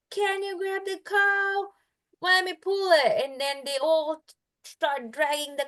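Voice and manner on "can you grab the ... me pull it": commanding king. Retold or imitated. King orders his army to grab the cow, raised mock command. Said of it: "he tells his army".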